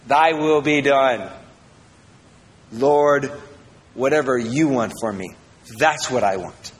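slow, measured surrender at normal pitch; sincere prayer. Acted. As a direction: pray it simply, settling downward. Sincere prayer after the booming take.

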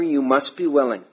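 "must" given emphatic weight; stress on must. Real, not acted. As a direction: lean firmly on "must". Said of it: "I emphasize the word must".

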